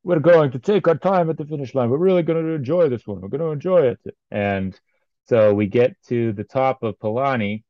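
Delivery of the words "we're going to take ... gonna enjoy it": put-on Mexican accent. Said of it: "then said".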